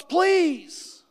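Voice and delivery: high, strained little plea; a whispered-up please of pain; pleading thought. Retold or imitated. Retold inner plea.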